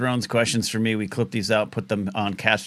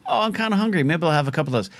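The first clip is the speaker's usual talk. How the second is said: high mock voice; 6 semitones higher, faster than usual. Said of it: "I was like".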